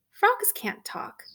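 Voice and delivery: high, disbelieving princess; high startled disbelief; surprised princess. Acted. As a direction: scoff that frogs can't talk. Princess disbelieving talking frog.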